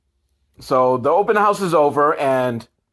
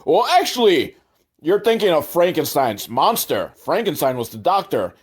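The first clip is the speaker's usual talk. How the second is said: mock know-it-all. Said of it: "Papa McAllister himself is annoying. He's like".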